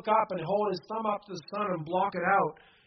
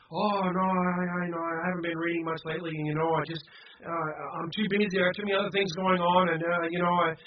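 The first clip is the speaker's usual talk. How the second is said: retold excuse; faster than usual. Acting out a person's excuses.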